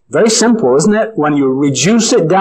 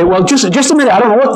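flustered, higher, hurried householder; retold panic; 7 semitones higher, much faster than usual. Neighbour panicking at the door, mildly voiced flustered. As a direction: play the doorstep neighbour caught off guard. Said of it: "they'd be really panicking".

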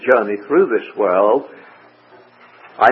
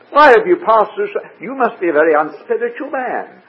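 higher-pitched, mildly accusing questions; mock reproach; 5 semitones higher than usual. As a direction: play a puzzled accuser challenging Paul's faith. Acting out reproachful questioning of Paul.

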